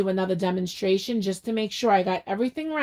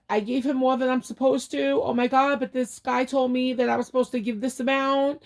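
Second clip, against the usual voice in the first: retold panic; 5 semitones higher than usual. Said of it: "I was, like, freaking out".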